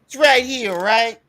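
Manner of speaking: mock Italian New York accent, high; Italian New Yorker accent. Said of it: "a, a Italian New Yorker".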